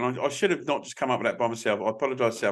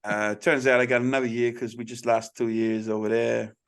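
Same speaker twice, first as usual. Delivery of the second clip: level Korean-American accent; understated Korean accent with an American tinge; 3 semitones lower than usual. Shown as a demonstration. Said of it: "I'm gonna do a Korean accent right now".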